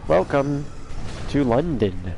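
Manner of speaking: lightly put-on British welcome; mock British accent. Streamer welcoming people to London, mock British. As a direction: play a British host, lightly. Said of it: "That's my British accent, right?".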